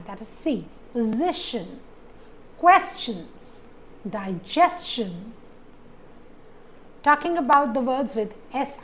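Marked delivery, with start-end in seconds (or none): 0.9-1.8 position with the middle syllable SI stressed. Shown as a demonstration. Teacher shows the rule, stressing position on SI. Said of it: "the second last syllable is S I". 2.6-5.3 Questions stressed on QUES, digestion on GES; second-last syllable stressed. Shown as a demonstration. Teacher lists T I O N examples, stressing Questions and digestion second from last. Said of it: "falls on the second last syllable".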